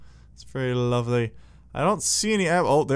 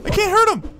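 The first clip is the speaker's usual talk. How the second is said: much higher and louder in alarm; panicked; 6 dB louder than usual. Real, not acted. Under fire from the angry stove, a panicked squeal.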